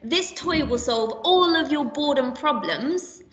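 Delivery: slow, sales-pitch voice, "all" lifted; advert claim. Shown as a demonstration. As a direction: sell the toy slowly like an advert. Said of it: "So if I've just said".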